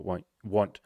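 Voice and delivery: slow, halting, word by word; real tongue-tied slowdown; struggling to talk. Real, not acted. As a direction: stumble and labour over each word. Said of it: "I'm struggling to talk".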